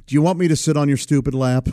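rude little offer, laughing through it; laughing quote. Retold or imitated. Uncle quoting niece's rude offer, laughing. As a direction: retell a blunt child's line while laughing. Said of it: "And she goes".

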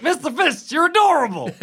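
high cooing pet talk. Retold or imitated. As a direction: coo it like baby talk to a pet. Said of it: "I'm like".

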